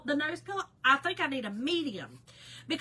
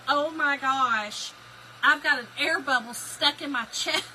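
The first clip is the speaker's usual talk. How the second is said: alarmed; 3 semitones higher, 6 dB louder than usual. Retold or imitated. Retold irrational panic.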